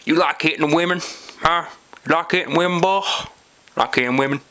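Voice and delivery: taunting the prisoner, rising; mock redneck sheriff. Sheriff taunting the jailed man, mock menacing. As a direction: sneer it like a small-town cop.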